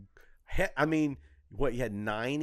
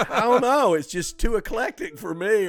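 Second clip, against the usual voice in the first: mock mother; 9 semitones higher, 5 dB louder than usual. Imitating the mother, laughing.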